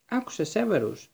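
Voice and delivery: measured call to listen; gently firm interruption; calm. A narrator's reading. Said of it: "είπε ήρεμα ο Ντάμπλντορ".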